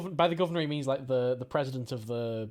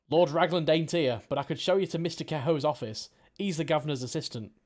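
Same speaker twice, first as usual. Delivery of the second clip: put-on Cockney accent. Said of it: "my amazing Cockney accent".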